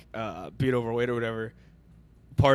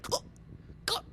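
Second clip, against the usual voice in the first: imitated hiccup gulps; 9 dB quieter than usual. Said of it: "going like".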